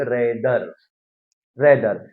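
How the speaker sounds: "rather" with its r fully pronounced; fully sounded r. Shown as a demonstration. Teacher explaining the rule, "rather" with full r. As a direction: say "rather" slowly articulated, keeping the r. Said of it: "आर को हम पूरा बोलेंगे".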